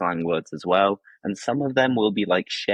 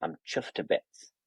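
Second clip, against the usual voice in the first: breathy demo; 5 semitones higher, 8 dB quieter than usual. Shown as a demonstration. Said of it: "go a little bit further with that and say".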